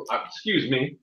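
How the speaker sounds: judge pausing with heartburn; a light belch of heartburn. Acted. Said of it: "Got some heartburn from smoking too many cigars".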